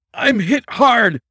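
high, loud, slow cry of pain; drawn-out, high-pitched shout of someone wounded. A narrator's reading. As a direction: cry out as if badly hit. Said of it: "he cried".

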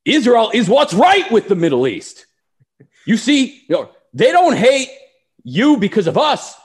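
put-on Israeli accent, high and loud; Bibi impression. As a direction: do Netanyahu's Israeli accent orating. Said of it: "Bibi, put it".

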